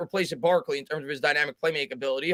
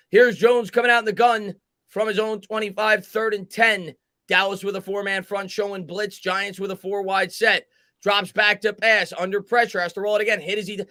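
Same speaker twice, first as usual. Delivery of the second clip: steady building play call; 2 semitones higher, 4 dB louder than usual. Acted. Calling third and ten live like a broadcaster.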